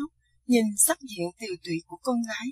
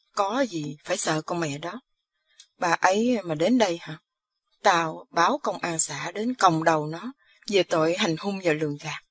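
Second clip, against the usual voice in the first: reassuring father; 3 semitones lower than usual. Acted. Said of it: "ông Năm trấn an".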